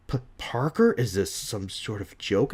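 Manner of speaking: stammering, disbelieving question; anger gone, puzzled and incredulous; baffled Jonah Jameson. Acted. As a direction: ask it in mild bewilderment. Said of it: "He's baffled".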